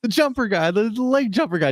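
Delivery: high-pitched mock fan spotting someone; excited recognizing passerby. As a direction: imitate a stranger who just recognized a local celebrity. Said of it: "a lot of people just recognize you".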